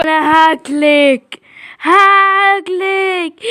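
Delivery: very slow, low monster growl; monster threat. Acted. Giant dad threatens to eat his daughter, slow monster voice. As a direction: drag it out like a giant.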